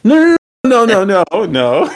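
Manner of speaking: high laughing no; laughing denial. Real, not acted. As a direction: laugh it off, protesting. Denying with a laugh.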